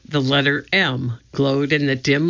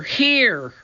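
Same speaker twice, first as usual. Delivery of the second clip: calling out; 9 semitones higher than usual. A narrator's reading. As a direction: call down from above. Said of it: "Annie's voice came from above".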